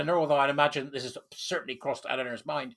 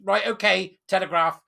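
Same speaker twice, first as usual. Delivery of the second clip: interrupting firmly. Real, not acted. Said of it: "I'm gonna stop you there".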